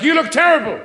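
mimicking wife. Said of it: "my wife says things like".

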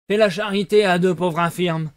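loud, wheedling beggar's whine; whining voice. Acted. Fox begging Pinocchio for charity, loud wheedling whine. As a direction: lay the misery on thick. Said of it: "d'une voix pleurnicharde".

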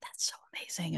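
breathy unvoiced whisper. Whispering backstage to a fellow speaker. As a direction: whisper it backstage so no one hears. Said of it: "And we're, like, whispering".

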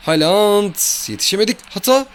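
yelling as the play falls apart; frustrated high shout; excited shout. Real, not acted. Striker chance then a miss.

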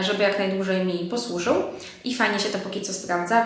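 ordinary talk

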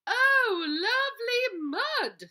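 very high squealing pig voice, loud and drawn out. Acted. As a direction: squeal it like a pig thrilled with mud. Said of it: "said the pig".

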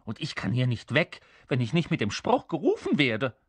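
mildly exasperated little creature; growled annoyance. Acted. Little creature scolding boring humans, mildly growling. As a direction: grumble impatiently, with jumpy pitch. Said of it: "knurrte das Männchen".

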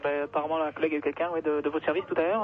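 tinny telephone sound; over the phone. Real, not acted. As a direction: voice through a phone line. Callee speaking on the phone. (au téléphone)

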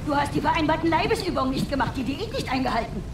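fast, cold reproach; rapid scolding. Acted. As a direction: rattle off the charges. Mother scolding son rapidly.

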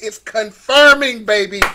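loud, drawn-out motivational punch; preacher-like burst of enthusiasm; hyped-up emphasis. Real, not acted. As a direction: hype them up, stretching the key word. Hyping up the audience.

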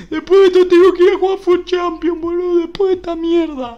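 high, loud exasperated yell; angry outburst. Real, not acted. Streamer dreads playing Champions after awful packs, angry yelling. Repeats complaint, now raging.

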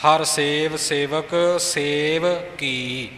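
slow, with ਕੀ set apart from ਸੇਵ; emphatic separated words. Shown as a demonstration. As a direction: stretch ਸੇਵ, pause, then a distinct ਕੀ. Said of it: "ਜਿਹੜਾ ਮੁੱਖ ਪਾਠ ਹੈ". (ਸੇਵ ਤੇ ਕੀ ਵੱਖਰੇ, ਜ਼ੋਰ ਦੇ ਕੇ)

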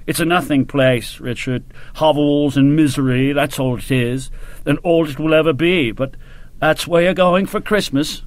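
lightly voiced colonel, dismissive; grand colonel. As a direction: hand out the posting with a touch of bluster. Colonel speaking to his officer.

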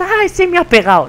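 high, loud mock whine; mock tattletale. Streamer mocking someone who tells on attackers, mock tattletale. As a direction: imitate a whiny snitch complaining. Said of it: "deja de chivarte".

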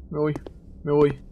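usual speaking voice

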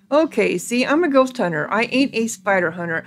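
a touch exasperated, animated character voice; lightly voiced grumbling ghost hunter. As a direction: lightly play a put-upon hired hand.

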